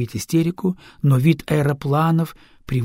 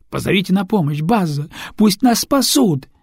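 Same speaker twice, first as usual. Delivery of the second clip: higher, louder frightened pleading; panicked plea; 5 semitones higher, 3 dB louder than usual. Acted. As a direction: beg for rescue in panic. Panicked singer calls for help.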